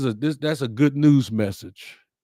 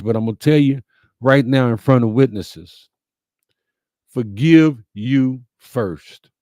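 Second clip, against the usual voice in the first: louder, slowing right down on forgive you first; emphatic preaching; 6 dB louder than usual. Real, not acted. To his live viewers, a louder, slowed preacher's warning. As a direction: lay it down like a preacher before witnesses.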